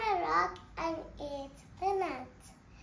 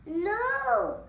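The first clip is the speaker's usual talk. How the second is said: startled no; 4 semitones higher, 6 dB louder than usual. Acted. Mouse spots the gruffalo.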